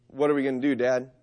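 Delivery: put-on quivering scared kid voice. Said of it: "his voice quiver when he says".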